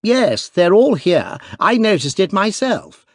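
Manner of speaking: put-on young duke, eager; eager cry. A narrator's reading. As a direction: blurt it out boyishly. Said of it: "cried the young duke".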